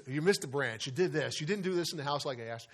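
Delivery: mild mock nagging, quickened; nagging wife. Preacher voices a wife nagging her husband in the yard. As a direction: rattle off complaints like a nagging wife. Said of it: "started nagging him".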